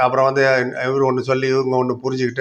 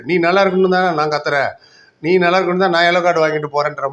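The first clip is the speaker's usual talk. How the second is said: mildly heated scolding, pitched higher; Manpreet Singh; 4 semitones higher, 3 dB louder than usual. Retold or imitated. Captain scolding his players for their own good, mock angry. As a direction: imitate a well-meaning angry telling-off, lightly. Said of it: "Manpreet சிங்லாம் கோவமா தான் சொல்லுவாரு".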